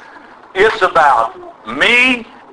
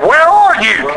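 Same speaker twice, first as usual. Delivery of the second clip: raised, insistent question; God calling Adam; 4 semitones higher than usual. Retold or imitated. God calling out to Adam, insistent. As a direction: press the question home. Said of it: "He says".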